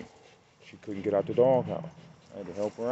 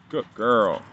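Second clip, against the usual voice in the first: praise for the dog; 6 dB louder than usual. Real, not acted.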